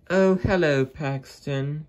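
shrill-high hammed-up lady coach; Annie's voice. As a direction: squeak the greeting up high as Annie. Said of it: "said Annie".

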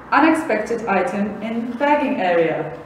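robotic checkout announcement; flat automated store voice; machine voice. Acted.

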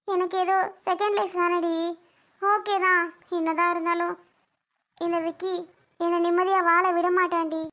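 mildly tearful lament; understated weepy protest. Acted. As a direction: complain through tears, fairly steadily. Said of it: "ஏன்டி அழற?".

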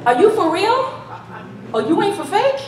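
a king acting shocked they won't bow; incredulous king. King mocking the three Hebrew boys, hammed-up disbelief. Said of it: "he's like".

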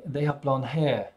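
non-rhotic English accent, R dropped from "hair"; English "hair" ending on an open vowel. Shown as a demonstration. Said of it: "if I were English, I would say".

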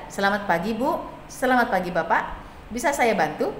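"Selamat pagi, Bu" articulated clearly; clear pronunciation. Shown as a demonstration. Operator greeting guests in Indonesian, clear pronunciation. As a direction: say each word of "Bisa saya bantu" distinctly. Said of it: "harus juga jelas".

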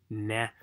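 "na" with a rounded-out, full vowel. Shown as a demonstration. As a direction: give "na" its whole vowel. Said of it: "要发元".

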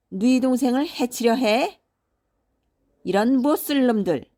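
loud, high-pitched enraged scolding; storybook father in a towering rage; furious father shouting. A narrator's reading. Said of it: "노발대발하며 소리를 질렀습니다".

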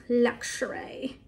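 stretched out slowly, playfully posh; drawn-out fancy luxury; silly posh luxury. Pretend. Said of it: "I'm just being silly".

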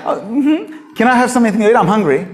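high, breezy and unbothered; the prophet casually asking the dying widow for food, breezy; mock careless prophet. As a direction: brush past her grief lightly. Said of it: "Did you hear that?".

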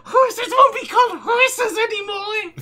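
laughing lewd Toad voice; cheeky squeaky Toad line. Acted. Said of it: "say that post in fucking Toad's voice".

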